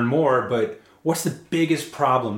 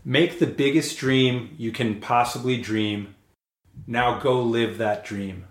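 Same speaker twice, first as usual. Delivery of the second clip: poem recital; slower than usual. Acted. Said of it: "and I'll recite it".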